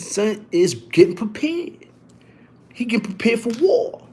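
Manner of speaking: 속삭이며 비밀 계획을 알리듯; whisper. Retold or imitated. Whispering secret plan to friend.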